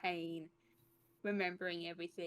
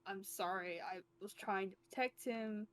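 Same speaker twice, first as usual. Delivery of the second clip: mild mock scream; 2 semitones higher, faster than usual. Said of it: "screaming out".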